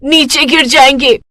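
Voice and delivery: high, loud panicked call; frightened girl crying out to Mohit; cry for help. Acted. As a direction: shout for rescue before you fall. Nandini calls for help from tree.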